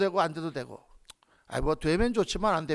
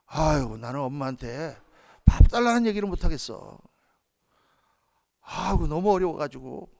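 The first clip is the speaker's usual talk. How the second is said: mock formal prayer; 4 semitones lower than usual. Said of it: "그렇게 밥합니까?".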